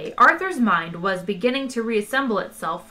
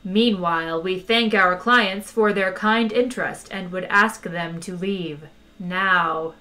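sharper menace; 2 semitones lower than usual. Acted. Recording telling visitors to leave, sharper menace. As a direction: ease them out the door with a threat. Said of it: "menace in the voice took on a sharper edge".

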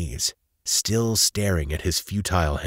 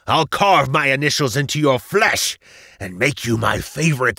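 loud, vengeful villain rant; cursing and screaming; 7 semitones higher, 6 dB louder than usual. A narrator's reading. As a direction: swear revenge, rising to a high scream. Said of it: "Valentus proceeded to curse and scream".

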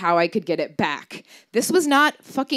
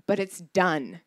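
matter-of-fact; 3 semitones lower, 4 dB quieter, slower than usual. Retold or imitated. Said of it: "she said matter-of-factly".

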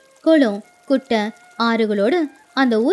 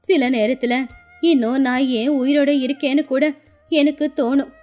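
wistful, lightly aged woman's voice; sorrowful old grandmother; 2 semitones lower than usual. Acted. Old woman tells Raju of her neglectful children, sorrowful.

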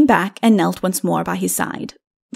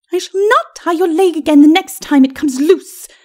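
high lady's warning; prim, high-pitched threat; threatening; 8 semitones higher, 4 dB louder than usual. A narrator's reading. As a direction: threaten him as an indignant wife, pitched up. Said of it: "she threatened".

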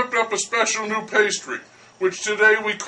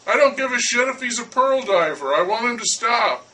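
fed-up baker; 4 semitones higher than usual. Acted. Baker swearing at Verlaine.

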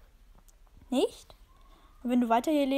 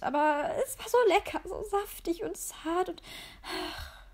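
higher, swooning savoring; dreamy relish; 6 semitones higher than usual. Acted. The cat savors the memory of the rabbit.

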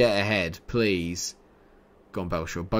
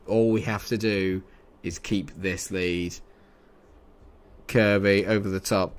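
ordinary delivery

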